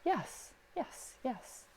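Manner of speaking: upbeat eager agreement; eager yes. Shown as a demonstration. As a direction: chirp yes like a willing helper.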